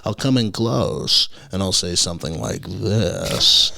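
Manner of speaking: slow, with THIS drawn out; changed inflection. Shown as a demonstration. Stand-up showing the host changed inflection, slow with THIS drawn out. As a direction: come in close and stretch out THIS. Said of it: "I like to change my inflection".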